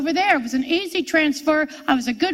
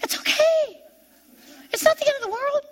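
high, tear-choked comforting words; high crying plea; 13 semitones higher than usual. Retold or imitated. Retelling the husband's comfort, voice still crying. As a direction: still sobbing while quoting the husband. She mimics husband soothing her.

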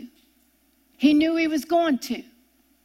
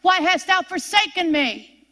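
mildly raised, pleading scripture quote; crying out to God; 4 semitones higher, 3 dB louder than usual. Acted. Preacher quoting Jesus forsaken on the cross, crying out. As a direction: voice a restrained cry of abandonment. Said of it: "Jesus is on the cross crying out to God".

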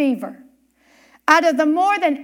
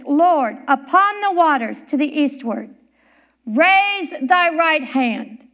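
imploring prayer. Retold or imitated. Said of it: "the minister implored".

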